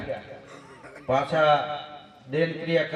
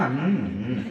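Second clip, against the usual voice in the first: mouth-full humming; 6 semitones lower, much slower than usual. Retold or imitated. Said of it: "હમ, હમ કર્યા રાખે".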